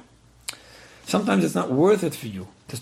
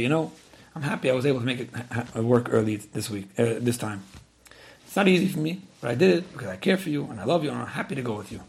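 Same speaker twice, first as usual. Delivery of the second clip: nice way; 2 semitones lower than usual. Acted. Wife kindly telling husband she came for him, sincere and warm. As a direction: say it gently, as a loving gift. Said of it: "But if you could say in a nice way".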